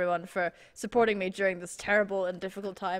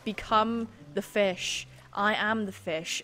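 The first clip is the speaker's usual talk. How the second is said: mock zen mantra. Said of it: "Just stay calm and let the fish take you".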